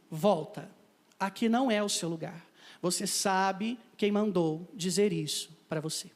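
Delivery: low, slow, grave words of warning; solemn warning voice. Retold or imitated. Stranger in the car warns the narrator to go back, low and grave. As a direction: speak it like a prophecy, slowly.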